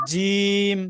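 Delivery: জিম pushed out firmly with a tense mouth; hard jim. Shown as a demonstration. Teacher showing students the hard letter, forceful and tense. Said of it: "শক্ত করে শব্দটা উচ্চারণ করতে হবে".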